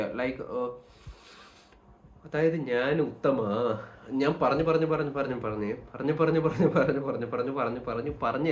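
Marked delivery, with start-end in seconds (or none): 2.5-8.5 breath control demo. Shown as a demonstration. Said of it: "properly breath ചെയ്തിട്ട്".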